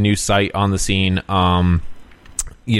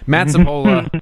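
rising, louder name call; excited shout-out; 6 semitones higher, 4 dB louder than usual. Acted. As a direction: call his name out with gusto. Shout-out to a guest critic.

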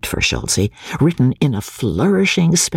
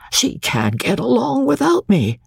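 groaning; 11 semitones higher than usual. A narrator's reading. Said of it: "he groaned".

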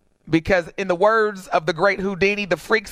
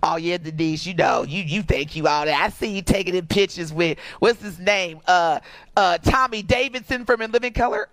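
imitating a teasing relative; 3 semitones lower than usual. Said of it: "this is always every year".

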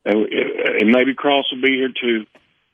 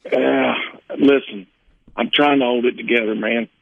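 holding back tears. Real, not acted. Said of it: "I got tears running down my cheeks".

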